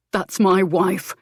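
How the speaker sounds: slow, hard warning; angry. Acted. Leo confronts the rival.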